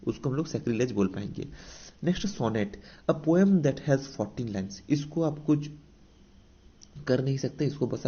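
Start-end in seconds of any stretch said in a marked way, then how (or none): 3.1-4.8 very slow, word by word, as if for notes; dictating a definition to students; slow dictation. Shown as a demonstration. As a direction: read it out slowly so the class can write. Teacher reads English definition aloud.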